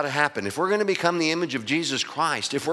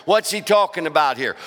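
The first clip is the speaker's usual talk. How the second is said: talking hit hard with a falling close; stress on talking. Shown as a demonstration. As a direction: lean into "talking". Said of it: "talk to the pastor moment".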